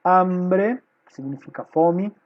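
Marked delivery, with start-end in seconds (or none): 0.0-0.8 "Hambre" with a strong, held first syllable; "Hambre" stressed on HAM. Shown as a demonstration. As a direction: lean on the opening A of "Hambre". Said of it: "é a tônica".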